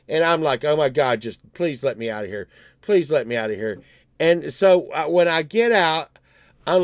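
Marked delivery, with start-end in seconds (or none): 0.6-3.8 low, quick mutter of a plea; weary pleading. Retold or imitated. Driver stuck behind marathon walkers, weary pleading. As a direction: plead under your breath, fast and low. Retells pleading to get past crowd.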